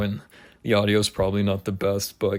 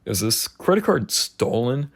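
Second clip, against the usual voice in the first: mock suspicion; slower than usual. Replays mock suspicion toward police officer.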